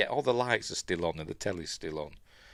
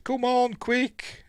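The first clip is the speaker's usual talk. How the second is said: urgent; much slower than usual. Retold or imitated. Susan urging him to hurry.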